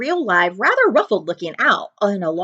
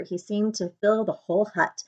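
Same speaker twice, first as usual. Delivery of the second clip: plain reading voice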